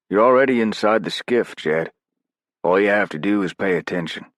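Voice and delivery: character voice. Acted. Narrator voicing Morvant's dialogue.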